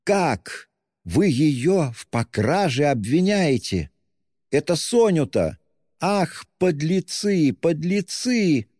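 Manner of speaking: high, slow indignant outcry; outraged. Acted. Katerina accuses Luzhin in high, slow outrage. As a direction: cry out in outrage at the scoundrels.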